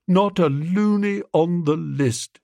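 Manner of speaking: slow, drawn-out gloom; gloomy. A narrator's reading. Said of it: "he said gloomily".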